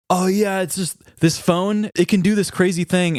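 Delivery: pitched well up, a goofy mock coworker; mock weirdo voice. Coworker mocked by his colleague, in a goofy high imitation.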